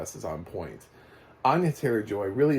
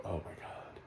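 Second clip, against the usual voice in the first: whispered groan; 5 semitones lower, 15 dB quieter than usual. Retold or imitated. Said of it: "people go".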